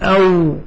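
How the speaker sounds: أو with lips parted and rounded; say the sound. Shown as a demonstration. Teacher shows the lip sound to students, clear pronunciation. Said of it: "تقول".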